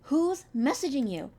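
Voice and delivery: slow, loud, high scream. Acted. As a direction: scream the question at him. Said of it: "Violet raising her voice to scream".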